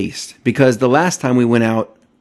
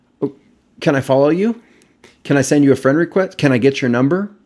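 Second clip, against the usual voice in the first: put-on eager, overeager, begging tone; 4 semitones higher than usual. Speaker acts out a guy jumping at the chance with a girl, mock-eager. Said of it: "a guy jumped up at the opportunity".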